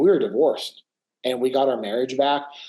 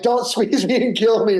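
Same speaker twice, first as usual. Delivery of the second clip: high and louder, laughing through the words; laughing plea; 9 semitones higher, 5 dB louder than usual. Retold or imitated. Laughing while hugged by a crying client. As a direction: laugh it out as if being crushed in a hug. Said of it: "I'm like".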